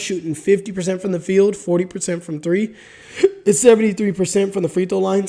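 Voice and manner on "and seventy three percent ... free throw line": hiccups. Real, not acted. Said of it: "I got the hiccups".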